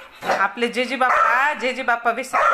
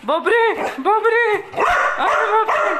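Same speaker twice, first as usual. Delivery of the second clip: amazed exclaim; 8 semitones higher, slower than usual. Real, not acted. Bird gulps the modak greedily.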